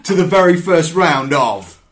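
big drawn-out announcer voice; game show announcer. Acted. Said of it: "Oh, that was good".

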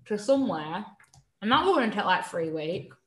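talking with chocolate in mouth; chewing while speaking; mouth full. Real, not acted. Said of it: "sorry, I'm eating chocolate".

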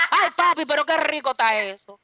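lightly put-on Dominican accent; a hint of a Dominican flirt. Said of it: "eso va a tener un acento dominicano".

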